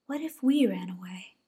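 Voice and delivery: hushed bunny. Acted. Rosie wonders.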